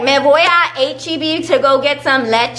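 Spanglish with slightly lifted voice. Acted. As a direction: switch playfully between Spanish and English. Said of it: "'cause it'd be like".

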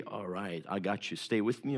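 soft, low, gentle invitation; Jesus quietly welcoming someone who presses in, gently; tender welcome. Acted. Jesus voiced welcoming a believer.

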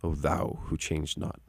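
slow, measured hymn recitation; lightly voiced preacher reciting verse; preacher quoting a hymn. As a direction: recite it slowly, line by line, softening at the end. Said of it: "he would always quote this line".

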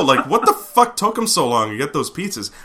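ordinary talk

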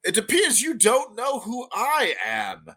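put-on a prim old gnome merchant, unhurried. GM voicing the gnome.

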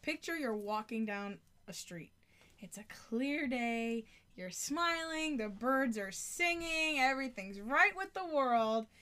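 slow, dreamy scene painting; slow idyllic picture-painting; dreamy storytelling. Shown as a demonstration. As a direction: paint a peaceful day slowly. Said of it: "make a visual for you".

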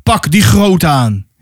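mild, slow called command; called-out order. Acted. Haran orders the hunters onto the big mammoth, calling out. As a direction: give a drawn-out order, lightly called. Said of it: "riep Haran".

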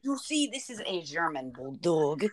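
tentative put-on German accent; attempted German accent. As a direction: have another go at a German accent. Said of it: "how do you do German accent".

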